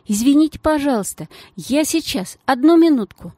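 a lightly voiced schoolgirl; polite schoolgirl. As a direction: hurry out a polite sorry. Schoolgirl Gelya apologizes.

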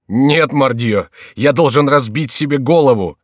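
desperate cry. A narrator's reading. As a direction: yell it out in despair, dragging the first words. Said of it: "вскричал молодой человек". (отчаянный крик)

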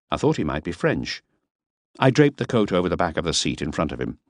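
ordinary delivery, nothing marked

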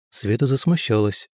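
usual speaking voice

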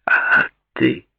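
short dry question. A narrator's reading. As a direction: ask it drily. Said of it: "сухо спросил Дэвид".

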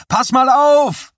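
high, loud, drawn-out shout. Acted. Boy shouting proudly to his idol to watch him. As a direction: yell proudly, slow and stretched. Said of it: "schrie Johnny".

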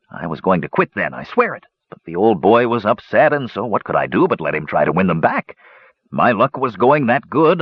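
lightly voiced dwarf, pitch often lifted; a hint of an eager storytelling dwarf; talkative dwarf gambler. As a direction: spin the gambling yarn as a dwarf. Dwarf tells of his gambling.

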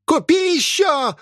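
very high, drawn-out shriek; shrieking old woman. Acted. Possessed old woman screaming from the house for food. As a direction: howl it like a possessed hag. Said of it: "вопили в доме".

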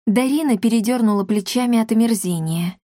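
ordinary delivery, nothing marked

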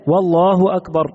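"والله أكبر" with a clear "و" joined before "الله"; added waw. Shown as a demonstration. Teacher showing students the wrong added waw before Allah. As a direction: start with "وَ" glued onto "الله". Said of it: "زيادة لحرف الواو قبل لفظ الجلالة".

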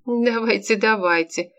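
obliging. Acted. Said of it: "любезно согласилась Полина".

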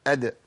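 أد closed on d with a small bounce; still dal, qalqala. Shown as a demonstration. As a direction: release the d of أد without a vowel. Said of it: "الدال الساكنة أقول إيه؟". (أد بدال ساكنة مقلقلة)

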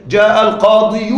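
القاضي with a sounded -yu ending, al-qāḍiyu; heavy damma. Shown as a demonstration. Teacher showing the difficulty, القاضي as al-qāḍiyu. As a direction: add an emphatic "yu" to القاضي. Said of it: "تشعر بصعوبة في النطق".

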